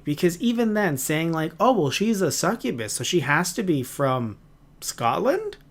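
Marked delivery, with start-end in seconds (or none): 1.6-5.6 incredulous. Retold or imitated. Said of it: "I was like".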